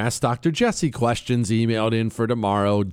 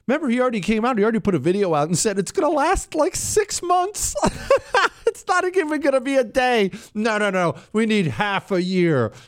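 high giggly voice; laughing while talking; 10 semitones higher than usual. Real, not acted. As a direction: talk through laughter. Laughing, mocking Trump's excess.

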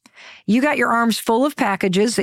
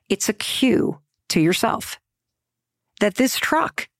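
whisper. Acted. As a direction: lean in and breathe it to the listener. Confiding the viral post's idea.

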